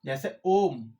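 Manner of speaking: Om with the vowel stretched; long held Om; drawn-out Om. Shown as a demonstration. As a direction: chant Om slowly, holding the sound. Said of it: "देखिए".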